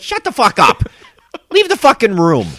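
high, loud yell through laughter; retold yelling. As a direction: bark it out, half laughing. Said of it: "you'd be like".

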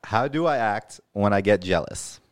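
suggestive read. Acted. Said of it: "why you say it like that".

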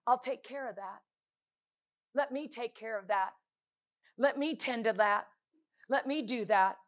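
hushed comfort, unhurried pauses between offers; gentle reassurance. Acted. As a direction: quietly offer to take the burden. Father gently reassuring in preacher's retelling.

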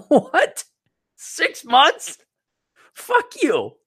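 high, incredulous mock outburst; mock outrage. Himself scoffing at the late police acceptance, high mock outrage. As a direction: scoff at the six-month wait. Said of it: "It's like".

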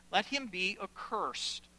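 slow declaration in one phrase; solemn pronouncement. Acted. Preacher reading Paul's curse, solemn and connected. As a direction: pronounce it firmly without breaking it up.

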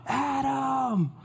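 high sing-song call of Adam; mom calling out. Retold or imitated. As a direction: call your kid in from outside. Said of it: "she would yell out".

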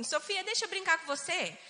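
a hint of a child asking to play; child's request. Older sister asking little Sofia to play, lightly childlike.

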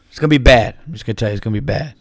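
a loose, hammy take on Obama's pauses; comic Obama bit, only a hint of his voice; Obama impression. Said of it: "I'll try to do my Obama impression".

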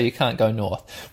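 slow, low, flat parser voice; game's reply. Retold or imitated. Game telling him he can't go north, mock deadpan. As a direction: read it like the game refusing. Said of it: "and it'll say".

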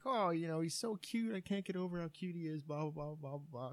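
high-pitched imitation of a cooing clerk; mock girlish fawning; gushing young woman. Imitates the clerk gushing over son.

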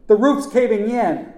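high, loud, drawn-out alarm; screaming. A narrator's reading. Nephew warning uncle of collapse, screaming. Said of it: "I screamed".

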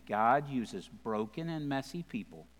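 God uses broken and messy people, slow and soft. Shown as a demonstration. Pastor repeating his key line to the congregation, slow and soft. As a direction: lean in and let it land slowly. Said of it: "let me say it again".

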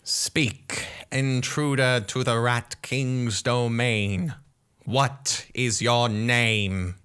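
commanding, slow on the last line; regal Rat King. Acted. Rat King demanding the intruder's name, commanding. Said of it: "Rat King speaks".

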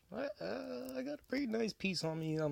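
high put-on tough guy. Boasting in put-on voice.

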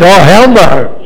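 high, loud refusal; mock Moses. Moses refusing to pick up the snake. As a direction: refuse flatly like a scared man. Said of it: "And Moses said".

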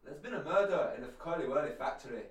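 put-on Scottish accent, lightly done; a hint of Scottish, loud. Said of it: "I want you to say in a Scottish accent".

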